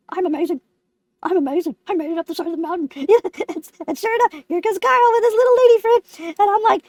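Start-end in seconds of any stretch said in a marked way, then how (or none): 0.1-2.9 low, self-satisfied stoic pose; stoic and proud. Acted. Lemon posing atop the mountain, stoic and proud. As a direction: puff up in a lowered, solemn voice. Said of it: "my stoic, proud lemon form".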